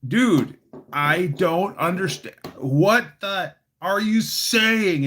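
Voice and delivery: a hint of whiny Joker; lightly voiced baffled Joker. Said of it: "Joker's like".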